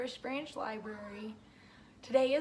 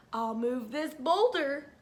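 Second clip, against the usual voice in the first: strained whisper; 4 dB louder than usual. Acted. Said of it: "Harmer pushed".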